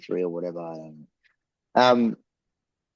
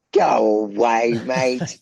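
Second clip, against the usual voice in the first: slow, louder incredulous brush-off; retold disbelief; 4 dB louder, slower than usual. Man hearing his mate is the mixer, incredulous. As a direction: draw out a mock dismissal in disbelief.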